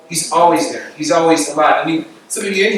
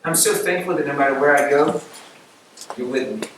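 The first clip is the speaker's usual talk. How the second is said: thankful prayer; 2 semitones lower, 5 dB quieter than usual. Retold or imitated. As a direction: let it settle into quiet gratitude. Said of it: "this moment, like".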